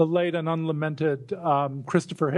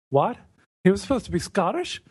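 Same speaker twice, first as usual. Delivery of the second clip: fast, rising, mocking disbelief; incredulous disbelief; 5 semitones higher, much faster than usual. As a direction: retell the friends' scoffing surprise, quicker and higher. Friends doubting Scotty's Scottish accent.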